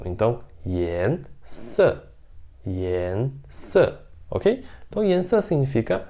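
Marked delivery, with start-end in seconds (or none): 0.0-3.9 "yan se" with "se" short and strong; Mandarin yan se. Shown as a demonstration. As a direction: model "yan se", falling "se". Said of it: "E o se, ele é mais forte e rápido". ("yan se" com o se forte e rápido)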